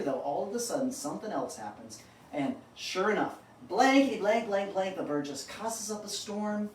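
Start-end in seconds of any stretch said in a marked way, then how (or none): 3.7-5.0 mock cursing. Bird's third cursing outburst.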